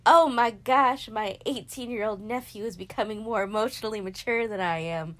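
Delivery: sudden loud outburst, tears rising; real tears breaking through; tearful. Real, not acted. Tearing up over her nephew, loud and choked.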